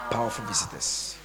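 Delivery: Powerful jumped way up high; squeaky high powerful. Shown as a demonstration. Pastor teasing about tomorrow's powerful visitors, high.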